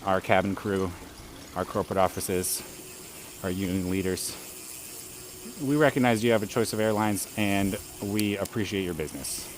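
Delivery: calm cabin announcement voice; airline pilot voice. Shown as a demonstration. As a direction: speak like a pilot over the intercom. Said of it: "I don't really have a good pilot impression".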